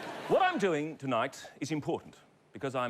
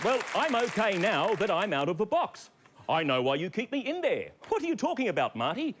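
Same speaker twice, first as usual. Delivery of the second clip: dummy voice; 4 semitones higher than usual. Acted. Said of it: "This is Marty, everybody".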